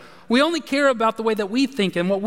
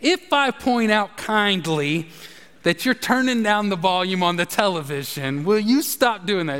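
mock kind request. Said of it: "I'll be like".

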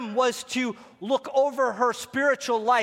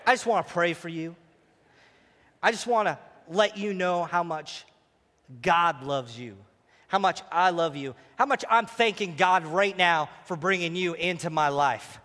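romantic; 3 semitones lower than usual. Shown as a demonstration. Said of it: "You gotta be romantic".

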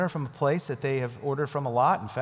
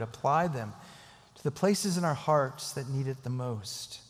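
prayer. Acted. Leads prayer.

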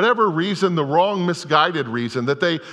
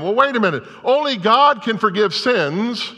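objecting scholars; 7 semitones higher than usual. Retold or imitated. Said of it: "And they say to him".

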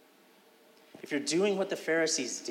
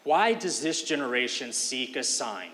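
impatient sarcasm; 2 semitones lower than usual. Shown as a demonstration. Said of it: "a hint of sarcasm or impatience".

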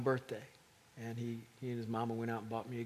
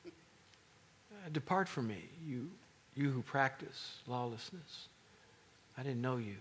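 unimpressed; 4 dB quieter than usual. Retold or imitated. Jesus dismissing the miracle workers, mildly unimpressed. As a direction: brush them off like it's nothing.

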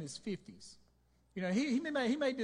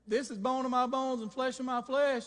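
raised, louder exclamation; excited Adam; 4 semitones higher, 5 dB louder than usual. Acted. Preacher acting Adam claiming Eve as his own, excited. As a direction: proclaim it with delighted emphasis. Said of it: "the excitement in Adam was so great".

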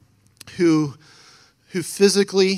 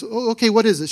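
surprised; 6 semitones higher, 4 dB louder, faster than usual. Retold or imitated. Retold counselor answering alarmed caller.

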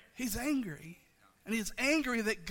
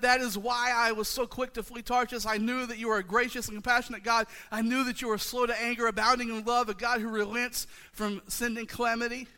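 Jonah's complaint; 4 semitones higher, 6 dB louder than usual. Retold or imitated. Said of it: "He said".

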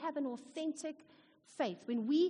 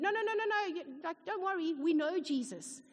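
high, eager reassurance; quick, bright no no no; excited tribe voice; 5 semitones higher than usual. Retold or imitated. Tribe people answer missionary.

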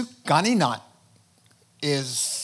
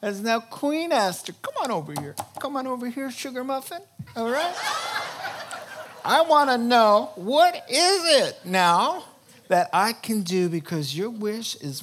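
higher, laughing honeyed king; doting king; 6 semitones higher than usual. Retold or imitated. King calling Esther to his side, doting and higher. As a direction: coax her over, playful and sweet. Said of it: "the king pats the cushion".

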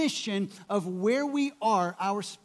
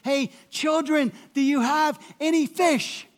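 yelling across water; 6 semitones higher, 5 dB louder than usual. Retold or imitated. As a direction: call out across a hundred yards. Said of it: "he would have had to yell to them".

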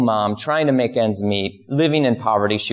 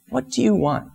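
Jesus asking again; 11 semitones higher than usual. Retold or imitated. Jesus repeats the question.

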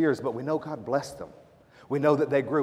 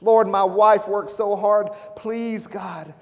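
acted desperate prayer, high-pitched and building louder; broken pleading; 6 semitones higher, 4 dB louder, slower than usual. Preacher voicing enslaved Hebrew men praying, broken, pleading cry. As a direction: beg God as a broken parent, high and slow. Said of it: "they were broken".

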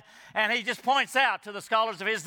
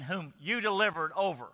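"you" set apart with emphasis; stress on you. Shown as a demonstration. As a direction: lean on the word "you". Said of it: "the Greek can emphasize it".

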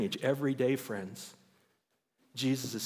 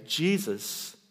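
raised, louder call to Jesus; crying out; 5 semitones higher, 4 dB louder, slower than usual. Retold or imitated. Blind beggar calls out to Jesus, raised loud cry. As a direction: call out to a passing crowd. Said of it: "he began to cry out and say".

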